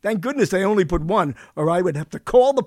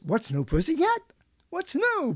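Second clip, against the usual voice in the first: pitched up with an exclamation point; exclaimed; 9 semitones higher than usual. Shown as a demonstration. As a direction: sing it with excitement. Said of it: "But nobody says".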